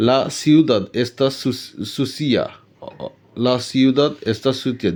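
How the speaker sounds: slow, careful teacher modelling; drawn-out classroom demonstration; slow model sentence. Shown as a demonstration. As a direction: say it slowly for students to repeat. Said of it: "teacher models sentence slowly".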